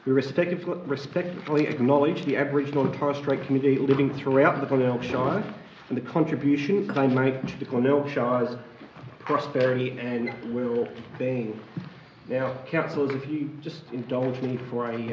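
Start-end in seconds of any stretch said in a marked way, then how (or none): 0.1-11.6 measured, formal address to council; formal acknowledgement. Acted. Councillor opening the meeting with a formal acknowledgement. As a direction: read it out as an official statement.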